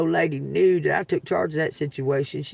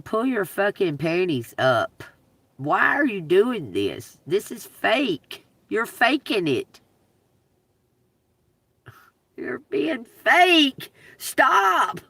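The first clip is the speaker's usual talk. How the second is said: stern scolding; much slower than usual. Retold or imitated. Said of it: "And I kept saying".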